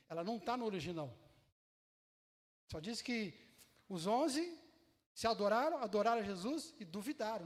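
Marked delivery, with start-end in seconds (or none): none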